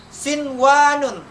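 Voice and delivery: "sinwanun" slow, with a clear n before w; izhar reading. Shown as a demonstration. Teacher modelling the exception for pupils, "sinwanun" slow and unmerged. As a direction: draw out "sinwanun", keeping the n unmerged. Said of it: "Izhar, dibaca izhar".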